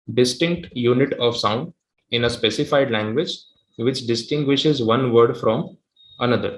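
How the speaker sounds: very slow, clear repeat of the definition; slow repeat dictation. Shown as a demonstration. Teacher repeating the definition slowly for students to copy. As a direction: say it again slowly so all can write. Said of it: "वापस repeat कर रहा हूँ, सुन लो".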